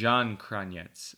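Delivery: "Zahn" with zh and "Kranjec" ending in ts, said slowly; repeating the correction. Shown as a demonstration. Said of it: "the Z into a zh".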